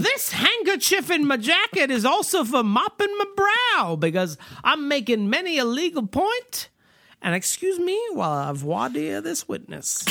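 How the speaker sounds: orate like a self-important Southern attorney; hammed-up Southern courtroom speech; Southern lawyer. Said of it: "in this southern law office".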